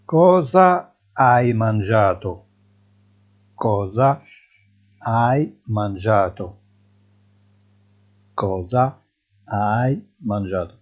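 slow, clear Italian question; drawn out for students; deliberate dictation pace; slow teaching model. Shown as a demonstration. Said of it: "teacher models slowly".

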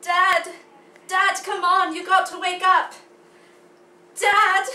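put-on loud stage cry in an American accent; loud pleading in plain American accent. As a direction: call out urgently, American accent, no affected vowels. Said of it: "American accent with that".

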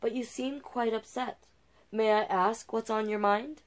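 put-on soft-spoken girl offering comfort; soft and kind. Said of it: "said a voice soft and kind".

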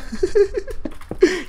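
high, breaking giggle. Real, not acted. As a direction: laugh in a high little burst. Laughs at own silliness. (risita aguda)

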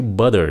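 "butter" with a hard T in the middle; wrong T. Shown as a demonstration. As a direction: show the mistaken "butter", T fully sounded. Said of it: "đừng có phát âm nó là butter".

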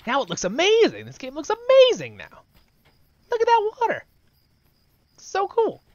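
high, loud excited gushing. Real, not acted. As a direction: gush over it, thrilled. Gushing over graphics.

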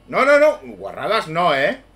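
high, loud frantic no's; panicked. Real, not acted. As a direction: yell in panic at the keeper. Panicking at keeper.

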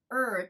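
"er" held with puckered lips. Shown as a demonstration. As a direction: make a long, rounded "er" without the tongue touching. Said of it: "ちょっと口をつぼめて". (口をつぼめて「er」と発音)

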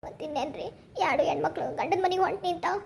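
understated sorrow of a parting; mild grief. Acted. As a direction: begin very softly, as if choked up. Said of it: "ನನಗ್ ದುಃಖ ಆಗ್ತಾ ಇರ್ತೈತ". (ಸ್ವಲ್ಪ ದುಃಖದಿಂದ)

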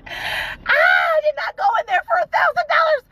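high, loud sobbing protest; crying outburst. Real, not acted. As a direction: cry it out, voice breaking high and loud. Emotional crying outburst in car.

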